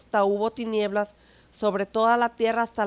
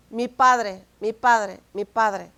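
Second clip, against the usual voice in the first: louder, fading over the three calls; earnest call to the Father; 5 dB louder, slower than usual. Retold or imitated. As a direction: cry out "mi Padre" and let it fade. Quotes Jesus calling the Father.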